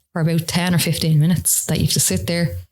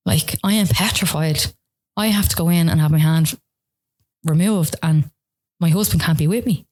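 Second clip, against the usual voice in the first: retold distress; 3 semitones higher than usual. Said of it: "And I remember bawling".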